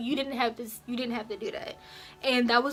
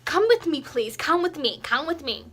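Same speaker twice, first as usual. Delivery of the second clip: loud, higher bossy imitation of the principal; imitating loud principal; 5 semitones higher, 5 dB louder than usual. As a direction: bark it like a principal bursting in. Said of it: "you didn't have to be so loud about it".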